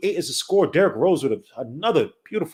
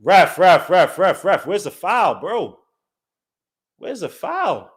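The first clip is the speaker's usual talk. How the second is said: pleading with the referee; 3 semitones higher, slower than usual. Real, not acted.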